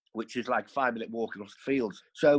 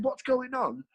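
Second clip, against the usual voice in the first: high, mocking echo of her question; student repeats the warden's question back in mock indignation; indignant echo; 12 semitones higher, slower than usual. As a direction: throw her words back at her, pitched up. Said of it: "I said".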